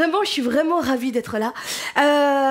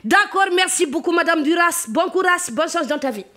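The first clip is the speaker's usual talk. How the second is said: fake cleaning lady. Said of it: "ça donne".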